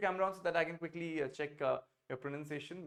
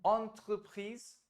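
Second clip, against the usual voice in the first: "entreprise" drawn out slowly and a bit higher; slow model word; 5 semitones higher, 4 dB louder, much slower than usual. Shown as a demonstration. Teacher models entreprise slowly for the student. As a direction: stretch entreprise for him to copy. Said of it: "dans une".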